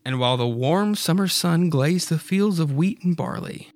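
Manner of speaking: ordinary delivery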